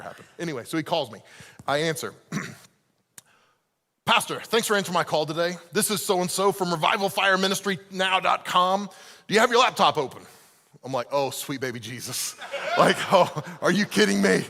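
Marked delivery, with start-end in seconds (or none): 4.0-10.2 a hint of the preacher caller; mild salesy pastor greeting; lightly voiced pastor. Same pastor calling back a year later with his pitch. 11.1-14.4 louder, laughing oh come on; exasperated laugh at the call; laughing disbelief. Retold or imitated. Speaker reacting to the same pastor calling again.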